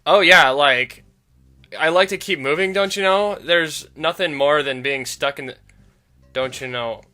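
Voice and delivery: loosely voiced Valley Girl with a northern lilt; light Valley Girl, drifting northern. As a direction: Maggie chatting in a lightly put-on voice. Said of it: "am I supposed to be giving her a northern accent".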